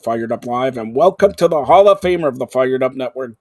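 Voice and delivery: loud, driving host welcome; show announcer intro. Acted. Host welcoming everybody to the flagship show, punchy announcer delivery. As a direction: kick off the show at full announcer energy.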